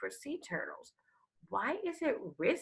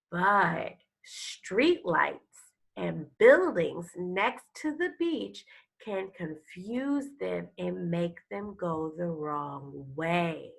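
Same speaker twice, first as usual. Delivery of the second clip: louder, expressive reading of a turtle picture book; storybook read-aloud; 3 dB louder than usual. Acted. Teacher reading a turtle book to her class, expressive storytelling. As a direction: read it like a nature story for kids.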